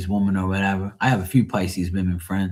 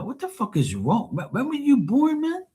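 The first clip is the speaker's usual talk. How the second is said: exasperated rant; 14 semitones higher than usual. Retold or imitated. Retold rant at Pisces coworkers.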